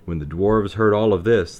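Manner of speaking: usual speaking voice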